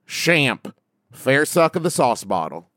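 lightly put-on Appalachian accent. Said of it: "read them all in an Appalachian accent".

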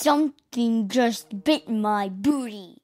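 lightly voiced big giant; a hint of a grumbling giant. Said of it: "Do you wanna try the giant voice?".

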